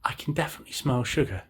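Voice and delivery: put-on high-pitched baby mole; high childlike voice. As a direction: announce it like an insistent little child. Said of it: "baby mole says".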